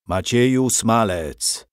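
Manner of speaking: a menacing half-roar in his ear; mild roar. Acted. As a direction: growl his name right at his ear, unhurried. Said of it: "ryknął mu ktoś do ucha".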